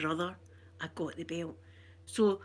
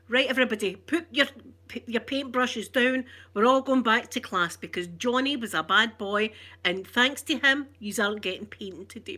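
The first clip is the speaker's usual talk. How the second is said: raised scolding teacher voice, louder; cross teacher; 4 dB louder than usual. Retold or imitated. Teacher scolding the class over Johnny, louder. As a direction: announce it like a fed-up teacher.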